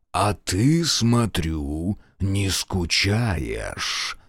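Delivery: низкий медленный голос демона, тише; утробно, как демон; утробный голос. Acted. Demon voice continues. (утробный голос демона)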